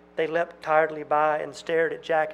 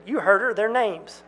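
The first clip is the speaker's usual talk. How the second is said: louder and higher insistence; pressing; 4 semitones higher, 5 dB louder than usual. Acted. Twin pressing Jack for names, loud. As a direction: push him hard.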